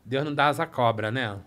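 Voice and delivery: low, snide gossip voice; mom's snide gossip. Retold or imitated. Mom sneering about the aunt's house, low snide voice. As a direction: mutter the jab at the rich aunt. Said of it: "ela queria ir lá pra falar assim".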